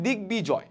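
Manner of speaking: দিগ্বিজয় as dig-bijoy; b fully sounded. Shown as a demonstration. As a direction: keep the b in দিগ্বিজয়. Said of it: "বয় উচ্চারণ বজায় থাকে".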